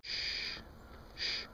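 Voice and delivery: shushing. Real, not acted. Hushing near the stump.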